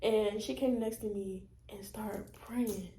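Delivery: hushed, breathy retelling; whisper. Real, not acted. Telling her cousin about the prayer, whispered. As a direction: whisper it like a secret.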